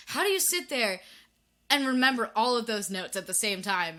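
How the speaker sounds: high, loud, incredulous outburst; amazed questioning. Acted. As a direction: ask in sheer disbelief, voice jumping up. Acts out own amazed question.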